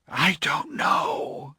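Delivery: high, slow, breathless gasp; broken gasp of despair. Acted. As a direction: gasp it out, overwhelmed. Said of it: "he gasped".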